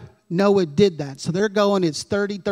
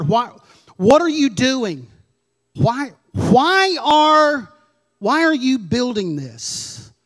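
astonished onlookers; 4 semitones higher than usual. Retold or imitated. Voicing astonished locals.

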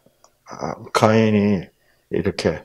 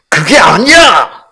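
loud, high, stretched-out denial; argumentative outburst; 9 semitones higher, 9 dB louder, slower than usual. Shown as a demonstration. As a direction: shout the objection as if in an argument. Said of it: "논쟁할 때 그래". (논쟁하듯 크고 높게 내지르는 반박)

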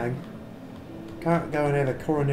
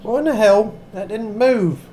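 badly faked British accent, chatty gamer commentary; amateur attempt at sounding vaguely British; mock British accent. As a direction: put on a dodgy, hard-to-place British accent. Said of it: "I know the accent's terrible".

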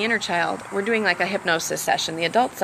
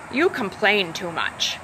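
critical inner parent; slower than usual. Retold or imitated. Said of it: "critical inner parent who was trying to shut down".

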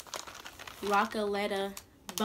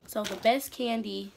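gasping with mouth wide open; reacting to a sour taste; tongue sticking out; 8 semitones higher, 11 dB louder than usual. Real, not acted. Seen 1: Tongue sticks out with sauce on it; no candy seen in mouth.

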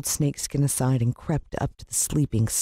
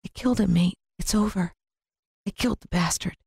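breathless relief; 5 semitones higher than usual. A narrator's reading. Relief after killing the snake.

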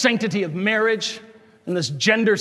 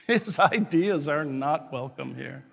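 softer and slower, a little laugh before it; quiet echo; 7 semitones lower, 6 dB quieter than usual. Real, not acted. Priest repeating his rule about Joe Biden, softer and slower. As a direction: drop low and slow, stressing "His".

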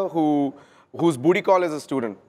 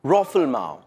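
heavy Indian accent; 5 semitones lower, slower than usual. Shown as a demonstration. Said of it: "heavy Indian accent".

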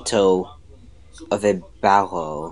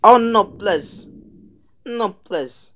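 anguished denial; 9 semitones higher, 4 dB louder, slower than usual. Real, not acted. Dino being killed.

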